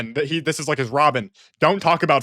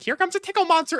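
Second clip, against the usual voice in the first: tickle monster; 14 semitones higher, faster than usual. Retold or imitated. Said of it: "she's like".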